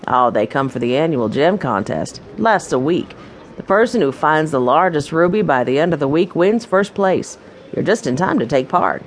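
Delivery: a hint of a folksy proprietor welcoming guests; welcoming mine owner. Mine owner greeting new guests, lightly voiced and welcoming.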